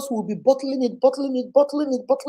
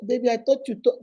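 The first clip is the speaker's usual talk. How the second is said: lower, easy spousal questioning; gradual, gentle approach; 3 semitones lower than usual. Shown as a demonstration. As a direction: ease into it tenderly, without accusing. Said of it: "just gradually".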